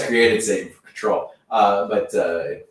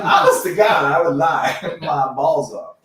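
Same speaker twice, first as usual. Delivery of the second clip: laughing mock oath; slower than usual. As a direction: laugh out a joking vow.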